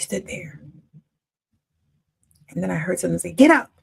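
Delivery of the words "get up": loud call. Retold or imitated. A voice waking her at night.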